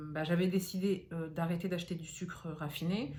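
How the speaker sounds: slight lisp from dental aligner. Real, not acted. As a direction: talk with a light lisp. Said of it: "excusez-moi, je zozote avec mon appareil".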